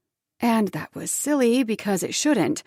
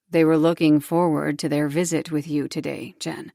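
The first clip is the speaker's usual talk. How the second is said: tight voice; 4 semitones lower than usual. Acted. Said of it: "His voice was tight".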